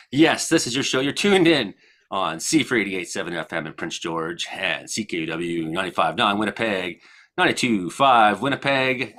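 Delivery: upbeat broadcast host voice welcoming listeners by city; lightly hosted on-air show opening; a touch of announcer; radio host intro. Acted.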